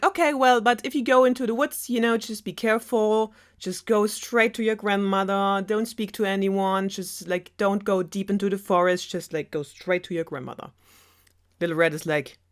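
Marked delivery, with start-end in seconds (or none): 0.0-10.7 lightly voiced fussing mother; caring mother. Mother warning Red about the woods, higher voice. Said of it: "her mother is like".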